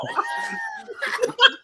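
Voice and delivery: very high wheezing laugh; real laughter. Real, not acted. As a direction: crack up completely. Cracking up at story.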